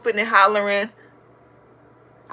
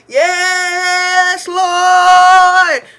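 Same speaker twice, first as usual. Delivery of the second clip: high, loud call of praise; little kid copying the praise of the congregation; church praise; 8 semitones higher, 7 dB louder than usual. Retold or imitated. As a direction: lift it up like a churchgoer. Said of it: "I be praising the Lord".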